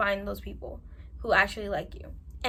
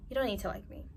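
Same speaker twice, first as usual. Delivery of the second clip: whisper; 7 dB quieter, faster than usual. Real, not acted. Calm acceptance, trailing off.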